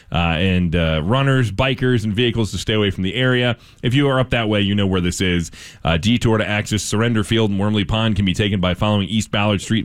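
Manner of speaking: steady radio news delivery; measured news-anchor reading. Acted. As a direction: read it as a local newscast. Reads local news.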